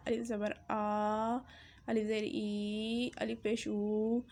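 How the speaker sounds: الف زبر آ, الف زیر ای, الف پیش او with each vowel stretched long; long drawn vowels on ای and او; wrong drawn-out vowels. Shown as a demonstration. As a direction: demo the wrong reading, vowels pulled long. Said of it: "جبکہ ایسا نہیں پڑھا جاتا".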